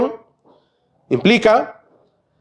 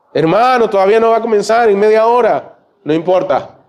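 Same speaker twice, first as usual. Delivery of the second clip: higher pleading voice; 5 semitones higher than usual. Retold or imitated. Diálogo con el portero.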